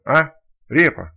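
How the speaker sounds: loud, slow baffled question ending on Репа; puzzled question. Acted. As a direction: ask Репа in a puzzled, rising-then-falling tone. Second stalker asks Repa.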